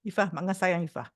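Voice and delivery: loving words said sourly; sour-faced. Shown as a demonstration. Aunt tells niece Ifah she loves her, sour-faced. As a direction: say it with a sour, unsmiling face. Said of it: "muka saya masam".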